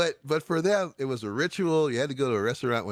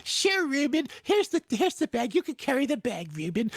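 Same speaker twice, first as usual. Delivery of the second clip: put-on Philadelphia accent; 14 semitones higher than usual. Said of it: "Yes, I'm failing miserably".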